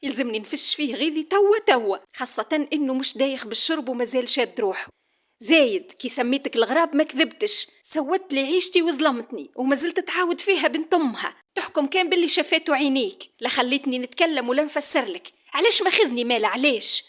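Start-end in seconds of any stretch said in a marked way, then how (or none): 5.4-17.0 higher, louder furious tirade; furious shout. Acted. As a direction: hurl every grievance at him. Wife screams her grievances at husband. (صياح بغضب شديد)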